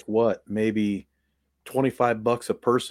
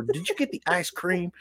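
mock southern accent; 6 semitones higher, 5 dB quieter than usual. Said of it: "things with a huge southern accent".

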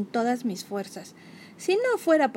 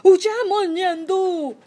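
much higher, louder panicked order; Morlesín's command; 8 semitones higher, 8 dB louder, much slower than usual. Acted. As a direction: bark the retreat in a fright. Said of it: "ordenó el gran Morlesín".

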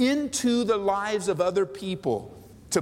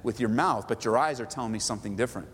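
gentle knowing reply; 5 semitones lower than usual. Retold or imitated. Mercy person answering gently.

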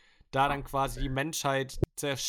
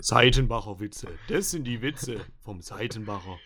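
Werbespruch-Stimme; 4 semitones lower than usual. Pretend. Parodiert Seitenbacher-Werbung.

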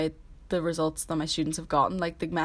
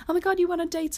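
mock shocked gasp; 11 semitones higher, 3 dB louder than usual. Friends gasping at dating news.

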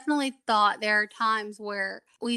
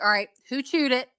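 mom checking on her own dogs; dropped out of baby talk into mom questioning; lightly voiced mom interrogation; 3 semitones higher, 3 dB louder than usual. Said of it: "they get the mom voice".

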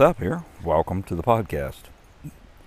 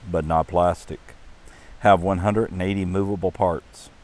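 measured, unhurried poem reading with voiced characters; story narration. A narrator's reading. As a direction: read it like a gentle Mother's Day tale. Reads the poem aloud.

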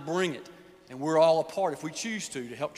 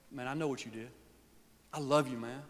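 tender father; 2 semitones lower, 6 dB quieter than usual. Acted. Father voiced welcoming son.

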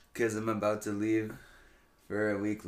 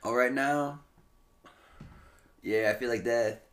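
tired and under the weather; sick voice. Real, not acted. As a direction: talk like you feel awful. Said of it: "Dan is very sickly today".

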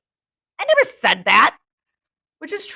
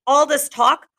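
building, higher and louder each time; rising yell of frustration; angry shout, louder on the repeat; 7 semitones higher, 5 dB louder, slower than usual. Acted. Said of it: "shouted Ralph".

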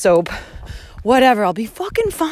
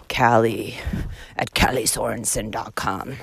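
hushed; 10 semitones lower, 5 dB quieter than usual. Real, not acted. Giving her contact address.

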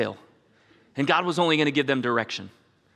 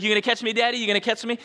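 put-on scared little kid; 8 semitones higher, faster than usual. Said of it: "They'd be all scared".

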